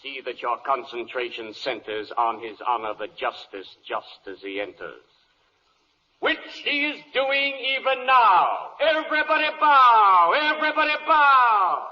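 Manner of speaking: rising to a shout at the end; bailiff calling out. Acted. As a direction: bellow the order to bow. Bailiff announcing judge's entrance.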